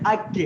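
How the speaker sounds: اک closed with a light k from the mid tongue; light kaf. Shown as a demonstration. Teacher leading students in a light kaf drill. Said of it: "آپ کاف میرے ساتھ آپ پڑھیں".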